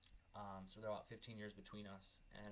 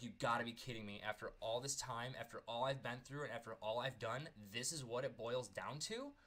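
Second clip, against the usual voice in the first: a touch of heated indignation; mock outraged rant, voice pushed up; retold anger; 3 dB louder than usual. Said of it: "I was just like".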